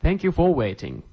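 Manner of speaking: slow, careful model reading; slow repetition. Shown as a demonstration. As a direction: spell it out slowly for learners. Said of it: "teacher repeats phrase for learners".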